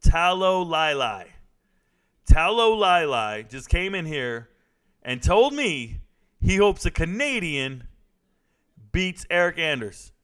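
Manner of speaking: loud, high, drawn-out name and accusation; indignant callout. Real, not acted. Streamer calls out viewer backing the Canadian, indignant. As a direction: announce the offender to everyone, outraged.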